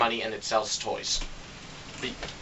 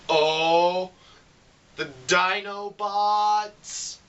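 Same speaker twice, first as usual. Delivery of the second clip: high, slow awe-struck gasp; excited fan; 6 semitones higher, 3 dB louder, much slower than usual. Retold or imitated. Viewer watching the trailers, slow excited awe. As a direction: stretch it out in wonder. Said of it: "you're like".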